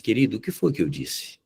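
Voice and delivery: usual speaking voice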